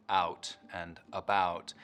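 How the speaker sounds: Canadian OUT and ABOUT, slow; Canadian raising. Shown as a demonstration. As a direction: raise the start of the vowel in OUT and ABOUT. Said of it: "raising the start of the diphthong".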